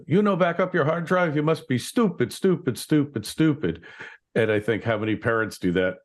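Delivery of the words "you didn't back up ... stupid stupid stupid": high put-on Asian-accent IT guy, scornful; mock the Asian IT guy's accent, calling them stupid; imitating Asian accent. Retelling the office IT guy scolding a coworker, mock Asian accent. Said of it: "he was Asian guy".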